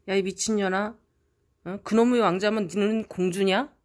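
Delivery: loud, scornful yell at the sister; angry scolding. Retold or imitated. Older brother yelling at his sister over the prince, loud scorn. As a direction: tear into her mockingly.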